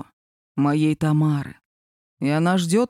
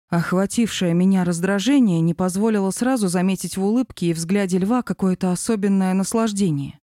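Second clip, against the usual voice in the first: plain reading voice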